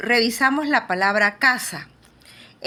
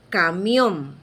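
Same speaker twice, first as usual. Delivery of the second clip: camión with the weight on the final "ón"; stress on last syllable; 2 semitones lower than usual. Shown as a demonstration. Teacher gives students an example of tonic stress, camión stressed on "ón". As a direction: lean on the "ón" of camión. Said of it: "donde se hace el mayor hincapié".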